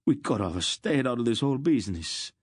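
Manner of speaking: high, put-on merchant's wail. A narrator's reading. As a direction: wail with panicky regret. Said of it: "the first merchant wailed".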